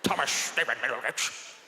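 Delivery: a lightly voiced Victorian gent; mutton-chop gentleman. Gentleman with mutton chops naming the boy, lightly voiced. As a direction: announce the name like an old gent. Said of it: "Like a guy with mutton chops".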